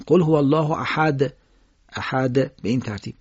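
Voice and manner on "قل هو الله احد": احد ending in a voiced, slightly bounced د; Arabic د in احد, voiced with qalqala; voiced final dal. Shown as a demonstration. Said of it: "جهرش رو باید بگید".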